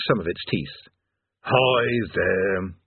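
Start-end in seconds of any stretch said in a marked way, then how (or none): 1.4-2.8 intoned. Acted. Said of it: "it intoned".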